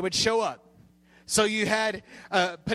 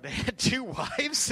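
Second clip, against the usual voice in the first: higher, questioning imitation of a surprised child; mock astonishment, pitched up; retold disbelief; 4 semitones higher than usual. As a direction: echo a kid's amazed question, rising at the end. Child reacts to story read aloud.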